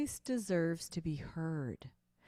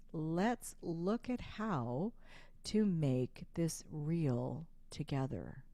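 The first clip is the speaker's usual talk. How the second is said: slowed, gentle sales voice that makes the client feel seen; calm belief-transferring voice. Shown as a demonstration. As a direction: settle into calm, measured conviction. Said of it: "a calm, belief transferring voice".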